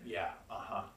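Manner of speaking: a boss letting you go, oh so gently; fake gentle. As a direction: manager firing someone in a fake gentle murmur. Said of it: "They're gonna give this nice, gentle".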